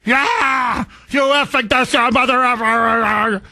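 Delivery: high, hammed-up angry protester yelling; mock the screaming protesters; mock protester shout. Host mimicking a ranting protester, mock shout.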